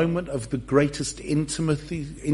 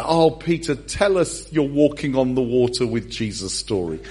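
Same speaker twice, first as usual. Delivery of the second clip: mildly voiced eager guest; lightly acted coaxing request; eager partygoer; 2 semitones lower than usual. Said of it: "somebody would have asked".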